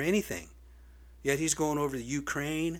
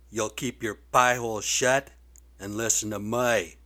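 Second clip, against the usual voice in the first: aide leaning on him, firm and a bit loud; mock aide warning; 2 semitones lower, 3 dB louder than usual. Aides warning the President, mock stern and louder. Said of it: "his aides are saying".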